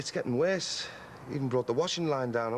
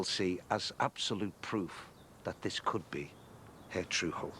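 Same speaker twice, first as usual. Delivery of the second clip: mock-formal speech; 5 semitones lower, 5 dB quieter than usual.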